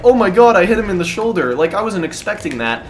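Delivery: put-on a kid gleefully shocked at his own lucky hit; giddy disbelief. Telling his friend about the hit, excited then calming. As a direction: burst out excited, then settle back down. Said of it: "I'm like".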